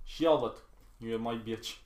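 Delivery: lightly put-on Russian accent, mock-menacing; a hint of a menacing Russian woman. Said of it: "Do that Russian accent one more time".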